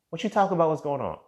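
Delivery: high-pitched feigned cluelessness; sister playing innocent. Sister dodging her brother's question, playing innocent. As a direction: toss it back high, as if clueless.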